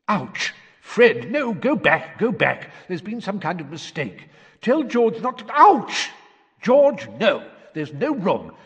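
put-on high, loud, jostled boy crying out; squashed in a chimney, yelping at his brother; panicked twin in the chimney. A narrator's reading. Twins voiced inside the chimney.

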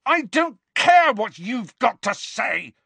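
high, loud, stammering roar; boy shouting down the headmaster. A narrator's reading. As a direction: roar over him, tripping on words. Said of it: "Harry roared".

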